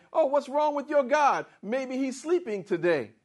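high, teasing jeer; mocking the rival prophets' god; mocking taunt. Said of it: "he was mocking the other prophets".

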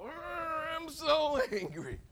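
high, drawn-out angry growling wail; acted anger. Jonah angry a day later, drawn-out mock fury. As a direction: stretch it out in hammed-up rage. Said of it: "he was angry".

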